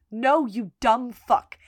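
slow, deliberate insult; quoting a withering reply; retold blunt put-down. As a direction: drag out each word of the insult. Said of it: "looks him dead in the face".

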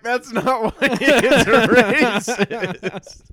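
high, loud, slow exasperated retort; mock exasperated yell at mom; exasperated shout. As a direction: drag it out, fed up and laughing. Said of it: "And she's like".

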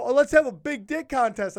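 high, loud mischievous announcement; gleeful proposal. Retold or imitated. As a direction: egg the crowd on. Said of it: "I go".

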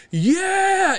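high cheering yell of triumph; retold cheer. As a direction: whoop like the crowd. Cheering the knockout.

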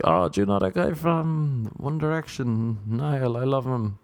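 put-on mildly gushing girl's voice; starstruck girl. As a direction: mimic her gushing over a band. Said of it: "so then she was like".

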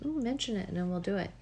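talking through a yawn; words stretched by a yawn. Real, not acted. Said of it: "here comes the yawn".

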